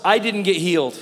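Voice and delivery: low, deflated complaint; mock disappointment, pitch sinking; disappointed. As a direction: imitate a let-down churchgoer. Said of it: "dann sagen wir ganz enttäuscht".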